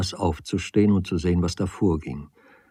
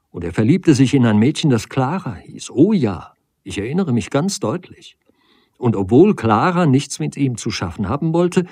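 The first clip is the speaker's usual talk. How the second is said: higher, pressing voice; agitated reproach; 5 semitones higher than usual. Acted. Woman confronts man over his story, agitated reproach. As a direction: throw the old story back at the listener.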